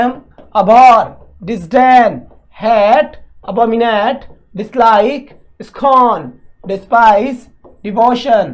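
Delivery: reading the list out loud, word by word; loud word drill. Shown as a demonstration. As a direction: call each word out clearly. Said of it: "जोर जोर से बोलो word को". (ज़ोर से शब्द सूची पढ़ना)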